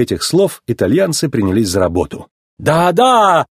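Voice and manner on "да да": high, delighted exclamation; thrilled Italian approval; admiring. A narrator's reading. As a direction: marvel at your own handiwork. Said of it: "восхищался Луиджи".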